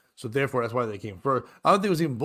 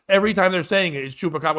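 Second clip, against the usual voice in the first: put-on Boston accent; 5 semitones higher, 6 dB louder, faster than usual. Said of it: "With a Boston accent".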